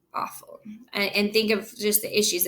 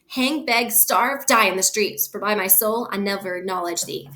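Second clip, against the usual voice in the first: angry father. Acted. Capulet threatens disowning.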